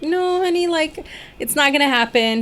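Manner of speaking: high, sassy "No, honey"; sassy dismissal. Retold or imitated. Turning down people who want to convert her, sassy. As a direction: brush them off with sass. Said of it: "I'm like".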